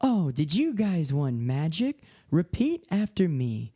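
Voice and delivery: high, slow theme-park performer voice; tour host character voice. Retold or imitated. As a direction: lead the crowd, bright and high. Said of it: "I do the tours".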